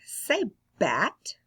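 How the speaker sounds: bat whispered; whispered demo word; whispered model word. Shown as a demonstration. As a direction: breathe the word bat for them to echo. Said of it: "repeat them after me".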